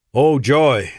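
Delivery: dry, mock-cheerful oh joy; sarcastic. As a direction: say it like you mean the opposite. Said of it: "take your tone as sarcasm".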